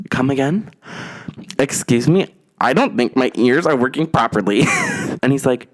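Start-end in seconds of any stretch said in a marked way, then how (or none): 0.1-4.6 high, incredulous questions; shocked disbelief. Real, not acted. Hearing the friend's rumor about her, shocked. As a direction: react like you misheard something outrageous.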